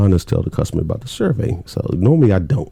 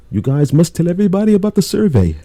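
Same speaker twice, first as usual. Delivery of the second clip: high, loud mock Scottish boss; hammed-up Scottish boss voice; Scottish accent; 10 semitones higher, 4 dB louder than usual. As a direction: put on a Scottish brogue for the boss. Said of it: "Oh, that's your Scottish accent".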